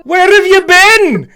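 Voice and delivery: high, loud, slow Scottish king; father king demanding where his daughter went; shocked father king. Acted. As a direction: cry it out as the stunned father, in a put-on Scottish accent. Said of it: "your father gets up".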